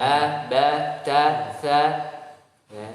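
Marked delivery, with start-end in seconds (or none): 0.0-1.8 crisp thin syllables, loud and clear; thin letter drill. Shown as a demonstration. Teacher models thin letters for the class. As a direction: say each syllable thin and open. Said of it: "teacher drills thin letters".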